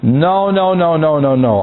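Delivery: mock self-correction, refusing in a run; acted firm refusal. Preacher acting out resisting temptation, firm refusal. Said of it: "Then you say".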